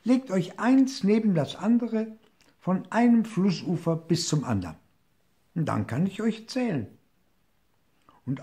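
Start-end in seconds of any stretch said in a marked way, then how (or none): 0.0-6.9 higher commanding call. A narrator's reading. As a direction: give orders across the river. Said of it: "rief der kleine Hirsch". (hoher, bestimmender Ruf)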